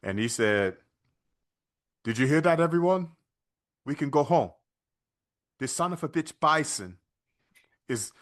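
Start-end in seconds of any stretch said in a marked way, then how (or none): 2.0-8.1 put-on Van Damme accent. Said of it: "And Van Damme in his accent".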